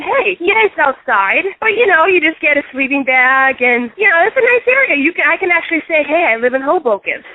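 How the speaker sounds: high, chirpy mock cheer; mock cheerful. Selling herself on living outside, lightly hammed-up mock cheer. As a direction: sell homelessness like a great deal. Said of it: "so I said".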